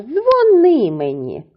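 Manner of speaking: "Дзвони" slowly, with high stressed -ни; stress on second syllable. Shown as a demonstration. Boy tells girl to call him, stress on second syllable. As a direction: hit NY high in "Дзвони": dzvo-NY. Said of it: "наголос на".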